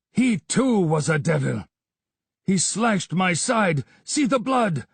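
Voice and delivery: a wounded man pouring out his failure; frantic babbling. A narrator's reading. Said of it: "Yar Akbar babbled".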